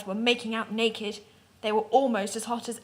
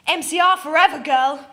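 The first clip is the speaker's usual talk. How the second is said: cheer; 4 semitones higher, 7 dB louder than usual. A narrator's reading. Author's note cheer.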